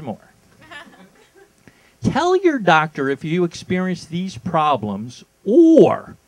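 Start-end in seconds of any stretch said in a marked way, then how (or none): 2.0-6.2 ad read. Shown as a demonstration. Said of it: "here are the side effects".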